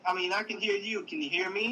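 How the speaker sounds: faint, distant call audio; breaking up over the line; bad connection. Real, not acted. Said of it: "you're breaking up".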